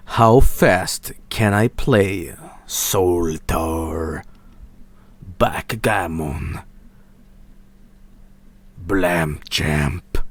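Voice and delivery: breathy whisper to himself; whispered aside. Real, not acted. Streamer wondering aloud, whispered. Muttering to himself about games.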